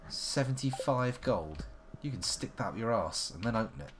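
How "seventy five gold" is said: slow indignant. Real, not acted. Indignant at price.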